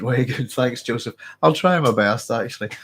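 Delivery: stuffy, bunged-up voice; blocked nose. Real, not acted. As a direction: talk through a blocked nose. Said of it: "I'm a wee bit bunged up tonight".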